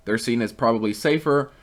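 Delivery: usual speaking voice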